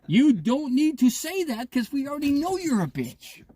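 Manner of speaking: retelling his text to her, mock sneer; mocking retort. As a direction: fire it back, sneering. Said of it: "I said, I said".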